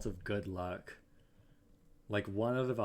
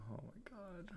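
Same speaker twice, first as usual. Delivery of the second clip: whispered; 11 semitones higher, 13 dB quieter, slower than usual. Real, not acted. Despair after failed run.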